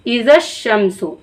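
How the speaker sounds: इज़ा शमसु read slowly, इज़ा stressed, each sound drawn out; slow Quranic reading. Shown as a demonstration. Teacher slowly recites इज़ा शमसु for her students. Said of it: "इस तरीके से अगर मिला के आप पढ़ेंगे".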